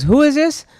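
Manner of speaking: the manager barking down the line; stern boss. Retold or imitated. District manager demands.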